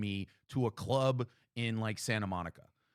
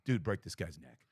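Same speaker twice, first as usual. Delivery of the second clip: inner jock; 5 semitones lower than usual. Retold or imitated. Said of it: "my college football me was like".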